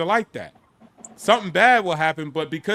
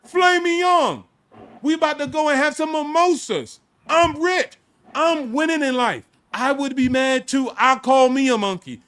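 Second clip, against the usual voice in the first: high-pitched, exuberant bragging; worked-up, dismissive comeback; boastful retort; 6 semitones higher, 5 dB louder than usual. Retold or imitated. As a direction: crow about winning in a raised voice. Continues his boastful retort.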